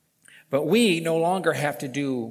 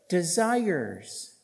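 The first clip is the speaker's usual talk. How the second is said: "desires" set apart, raised high then falling; stress on DESIRES; 6 semitones higher, 4 dB louder than usual. Real, not acted. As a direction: land hard on "desires" as the key word. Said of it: "I want to stress the word desires".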